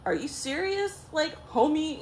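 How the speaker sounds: high, incredulous homie; retold guy talk. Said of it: "you know, guys talk".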